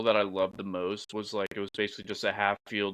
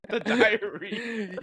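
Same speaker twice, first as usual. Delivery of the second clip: laughing; 11 semitones higher, 4 dB louder, much slower than usual. Real, not acted. Laughing repeat of punchline.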